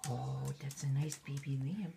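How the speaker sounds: talking to a dog. Real, not acted. Dog talk with toys.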